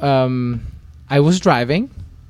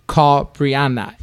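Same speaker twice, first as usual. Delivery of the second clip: slow annoyed command; 3 semitones higher, 4 dB louder, much slower than usual. Retold or imitated. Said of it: "I'm like".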